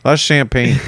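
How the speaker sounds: breathy whispered aside; whispering. Real, not acted. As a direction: lean in and whisper it.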